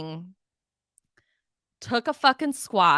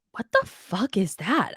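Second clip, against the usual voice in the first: horrified whisper at what she sees; a stunned whispered swear; whispered shock. Retold or imitated. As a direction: hiss it in disbelief. Retelling her shocked reaction.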